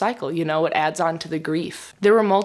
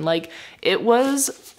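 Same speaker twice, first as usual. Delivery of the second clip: holding back tears; slower than usual. Real, not acted. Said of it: "I'm also trying not to cry".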